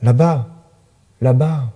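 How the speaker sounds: earnest poetry reading with dramatic pauses; poem recitation. Acted. Narrator reads a poem urging messenger pigeons to fly, poem recitation. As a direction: recite it as an urgent plea, setting the imperatives apart.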